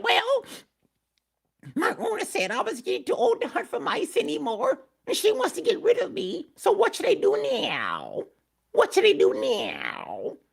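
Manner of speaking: very high whimpering cat voice, slowing at the end; crying old cat. Acted. Old cat tells donkey her owner wants her gone, whimpering high. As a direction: mewl it like a weeping old cat. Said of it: "she was sad and whimpering".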